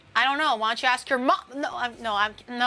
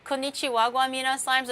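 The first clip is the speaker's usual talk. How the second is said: imitating trending guy; 3 semitones higher than usual. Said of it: "Is that guy still trending?".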